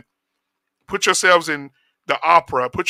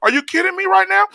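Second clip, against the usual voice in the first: mock sassy disbelief. Mocking feminine men talking.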